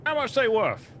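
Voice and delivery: high-pitched goblin bargainer; goblin boss. Acted. Goblin boss asking the adventurer about boots, high goblin voice.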